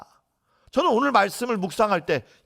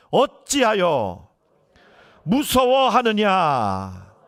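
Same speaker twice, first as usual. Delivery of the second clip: 느리게 길게 끌며 높여 읊는 책망; 음절을 늘여 힘주어 꾸짖듯 낭독; 3 semitones higher, 4 dB louder, much slower than usual. Retold or imitated. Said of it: "책망의 말씀이었습니다". (천천히 힘주어 책망하는 말씀)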